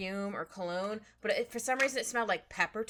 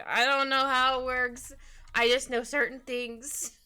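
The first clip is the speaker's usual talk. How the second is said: slow, louder playful confession; louder, drawn-out goofy admission; mock clueless; 5 dB louder, slower than usual. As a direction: drag it out in comic helplessness. Acts out own cluelessness.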